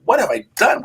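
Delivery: high, exasperated retold cry; a hint of hammed-up regret; mock dismay. Reporter bitten by fire ants on Alligator Alley, mock despair.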